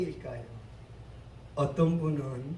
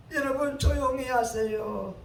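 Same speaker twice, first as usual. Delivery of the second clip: Son Yang-won; 6 semitones higher than usual. Acted. Pastor repeats the hush, softer.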